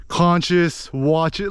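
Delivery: "Conscious" and "watch it" run together, slurred; slurred rhyme. Shown as a demonstration. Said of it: "slur the words together".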